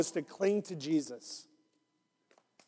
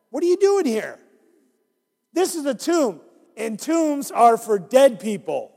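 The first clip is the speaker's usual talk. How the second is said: higher, amazed question; wondering angel; 3 semitones higher, 4 dB louder than usual. Acted. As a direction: ask it full of wonder.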